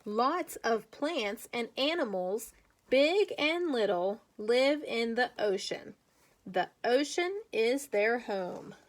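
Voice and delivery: put-on slow, clear read-aloud for young kids; reading to children. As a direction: read it slowly, like a picture book for little ones. Teacher reads picture book aloud.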